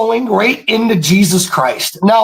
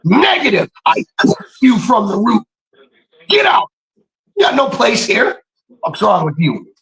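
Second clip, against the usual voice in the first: rebuking shout; 2 semitones higher than usual. Retold or imitated. Casting a lying symptom out of his body, fierce rebuke. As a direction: cast the symptom out with a raised voice. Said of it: "I'm like".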